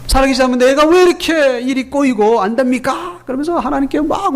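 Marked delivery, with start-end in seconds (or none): 0.1-3.2 mock grievance against God, mildly voiced; acted complaint. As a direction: retell a frustrated man's protest, building a little. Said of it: "하나님께 원망하는 거예요".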